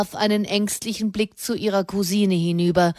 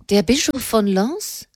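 surprised echo question, Bischof leaned on, rising end; startled echo of Bischof von Lens; astonished; 5 semitones higher than usual. Acted. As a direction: repeat the name as if you can't believe it. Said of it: "rief Ennemond erstaunt".

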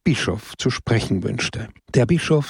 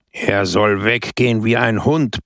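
mild mock roar. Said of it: "brüllte Brusco".

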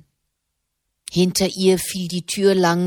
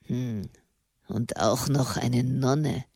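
ground out; 5 semitones lower, 6 dB quieter, slower than usual. A narrator's reading. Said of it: "knirschte er".

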